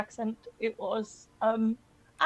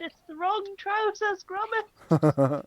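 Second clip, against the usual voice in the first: louder, higher mock-exasperated film quote; emphatic repeat; 7 semitones higher, 5 dB louder, slower than usual. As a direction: repeat it loudly for someone who missed it. Repeats quote after not being heard.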